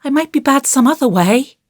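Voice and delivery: put-on high, hesitant child's voice; careful little-boy qualification; cautious. A narrator's reading. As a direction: hedge it like a wary small boy. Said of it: "added Davy cautiously".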